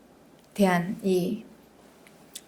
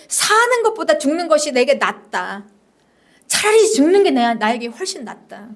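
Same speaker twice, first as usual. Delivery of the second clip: raised plea, dropping away at the end; despairing prayer; 3 semitones higher than usual. Acted. Jonah asking God for death, despairing prayer. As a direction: plead as one weary of living. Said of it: "이렇게 이제 기도합니다".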